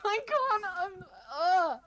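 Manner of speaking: high character voice breaking up as you smile. Acted. Player failing to stay in character while smiling, high-pitched. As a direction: attempt a high voice through a suppressed grin. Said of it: "I can't do the high voice when I'm smiling".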